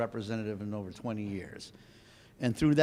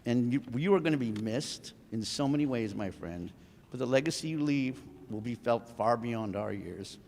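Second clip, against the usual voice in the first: choked up. Real, not acted. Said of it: "Sorry, I'm getting emotional".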